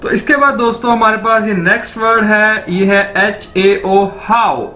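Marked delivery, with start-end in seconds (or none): 2.7-4.7 एच ए ओ spelled very slowly, then हाउ; spelling out hao. Shown as a demonstration. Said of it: "इसको कैसे बोलना है आपने?". (एच ए ओ धीरे धीरे, फिर हाउ)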